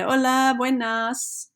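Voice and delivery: mean the greeting; with expression. Shown as a demonstration. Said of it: "say it with expression, like you mean it".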